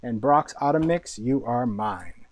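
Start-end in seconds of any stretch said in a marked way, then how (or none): 1.2-2.2 low, slow, mock-possessive claim. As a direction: savour each word like a greedy villain. Claiming favourite candy mix.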